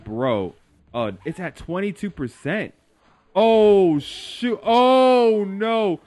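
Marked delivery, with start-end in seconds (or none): 3.4-6.0 panicked yell. Real, not acted. Fight going badly, yelling.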